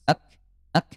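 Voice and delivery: "ak" closed with a breathy kaf; "ak" with a whispered kaf release. Shown as a demonstration. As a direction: end "ak" with a puff of air. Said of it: "huruf kaf dia syiddah dan hams".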